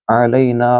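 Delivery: अलैना with a throaty ain and a long ना. Shown as a demonstration. Teacher isolating the word, throaty ain. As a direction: stretch the ना. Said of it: "आइन को गले से बोलें".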